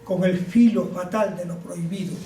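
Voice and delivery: measured verse reading, pausing after each line; formal, deliberate poetry reading; poem recitation. Acted. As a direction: declaim it like a solemn poem. Recites his pandemic poem.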